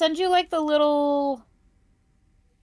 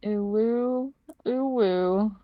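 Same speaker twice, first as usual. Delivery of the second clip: playful howl; much slower than usual. Pretend. Answering with howl sounds.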